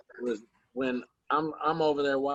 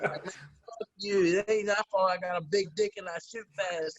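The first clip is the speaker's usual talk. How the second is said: higher, laughing mock protest; imitating Anthony; 5 semitones higher than usual. Anthony telling off the ref, higher laughing mock voice. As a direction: retell the brag half-laughing, pitched up. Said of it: "But he was like".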